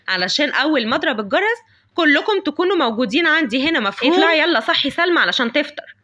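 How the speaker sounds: loud, angry scolding of the maid; scolding mistress. Acted. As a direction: tear into the servant. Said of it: "دايمًا متعصبة". (ست متعصبة بتزعق في الخادمة)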